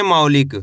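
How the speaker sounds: मौलिक as one joined word, pitched low; model pronunciation. Shown as a demonstration. Teacher shows learners how to read it, मौलिक low and joined. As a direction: join मौ and लिक, dropping the pitch. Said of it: "कैसे पढ़ेंगे?".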